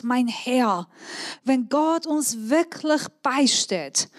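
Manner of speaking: measured Bible reading to the congregation; preacher reading Judges to the church; scripture reading. Acted. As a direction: read the passage aloud in a lightly heightened voice. Reads the Bible passage aloud.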